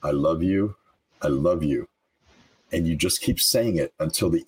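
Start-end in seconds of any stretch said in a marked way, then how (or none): 0.0-1.9 sincere affirmation. Shown as a demonstration. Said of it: "just say repeatedly".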